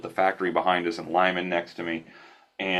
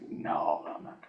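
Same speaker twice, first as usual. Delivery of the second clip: stunned refusal; 9 dB quieter than usual. Retold or imitated. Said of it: "I was like".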